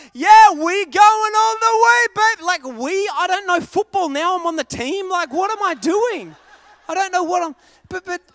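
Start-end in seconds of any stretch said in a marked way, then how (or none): 0.1-2.4 copycat cheer. Retold or imitated. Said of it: "I'm like".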